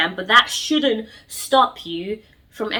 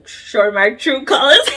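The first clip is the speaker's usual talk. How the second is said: laughing through the words; 4 semitones higher, 7 dB louder, slower than usual. Real, not acted. Vlogger laughing at her dating habits, laughing. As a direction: break into a real laugh mid-phrase.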